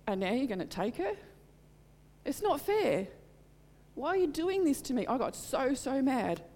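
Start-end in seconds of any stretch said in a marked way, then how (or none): 0.1-5.1 mock-relive shouting at heaven; desperate retold outcry, climbing high; retold yell at God. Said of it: "I yelled at God".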